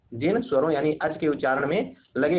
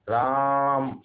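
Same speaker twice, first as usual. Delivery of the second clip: calling out; much slower than usual. Shown as a demonstration. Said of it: "जोर से बोलते हैं, किसी को बुलाते हैं".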